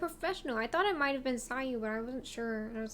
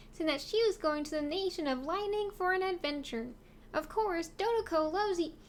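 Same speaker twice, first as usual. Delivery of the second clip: cutesy voice. Acted. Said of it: "a cutesy voice".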